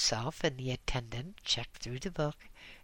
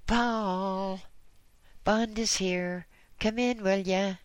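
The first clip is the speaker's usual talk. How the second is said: higher, louder bawl across the building; 7 semitones higher, 5 dB louder than usual. A narrator's reading. Doctor calling a colleague over the intercom, bawling. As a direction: bellow it down the intercom. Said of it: "but to bawl".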